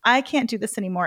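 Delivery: whispered, defeated plea for help. Retold or imitated. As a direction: whisper it to your husband, beaten. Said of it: "enlisting my husband".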